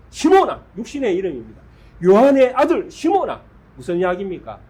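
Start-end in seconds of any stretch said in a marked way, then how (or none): 0.1-0.6 높고 크게 부르는 외침; 시몬아를 멀리서 부르듯 크게; calling out. Acted. 예수님이 베드로를 부르심. 2.0-3.4 높고 크게 꾸짖듯 부르기; 시몬아를 크게 외치며 떨어지는 억양; loud rebuking call. Acted. 예수님의 질책하는 부름.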